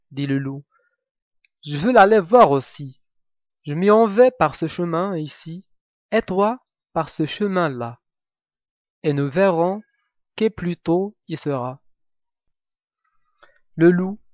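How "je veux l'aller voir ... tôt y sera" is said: a sly wolf, a touch louder. Acted. Wolf cheerfully dares the girl to race, lightly voiced.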